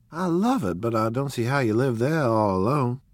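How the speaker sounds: excited. A narrator's reading. Daisy delights in house.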